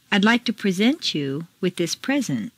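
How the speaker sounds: first "present" as preSENT, last as PREsent; contrasting word stress. Shown as a demonstration. Teacher reads exercise, contrasting preSENT with PREsent. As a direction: stress preSENT for verb, PREsent for noun. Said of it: "Mark the intonation".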